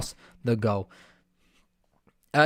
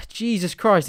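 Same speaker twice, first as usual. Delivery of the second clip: exasperated sigh; 6 semitones higher, slower than usual. Real, not acted. Sigh after another miss.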